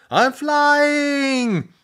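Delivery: high flying yell; cry. A narrator's reading. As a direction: shout it mid-flight. Drew thrown through air.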